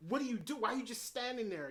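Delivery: frustrated fan shouting advice at the TV; yelling at the screen. Retold or imitated. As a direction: viewer yelling at a character to finish the killer, exasperated. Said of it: "I was screaming at the screen".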